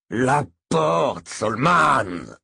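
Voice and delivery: desperate loud moan at Solman. A narrator's reading. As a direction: cry out in panic. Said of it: "gémit le chauffeur".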